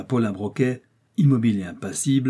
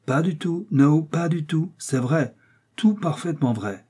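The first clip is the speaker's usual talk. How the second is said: higher-pitched, emphatic protest; insistent denial; 6 semitones higher than usual. A narrator's reading. American rejects the charge of bluffing, insistent. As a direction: insist firmly that it is true.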